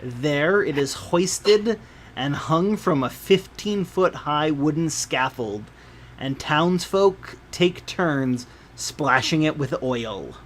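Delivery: measured game master storytelling; scene narration. A narrator's reading. Game master describing a festival procession to players, measured narration. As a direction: read the scene out with deliberate phrasing.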